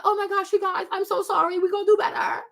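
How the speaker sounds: mock apologetic brand owner; a hint of a flustered creator saying sorry; mock apology. Mocking a brand owner apologizing to fans. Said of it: "You're like".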